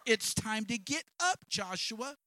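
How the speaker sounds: high, loud urging, voicing God calling Joshua up. Preacher voicing God to a despondent Joshua, loud and urging. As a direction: push him to get up and stop wallowing.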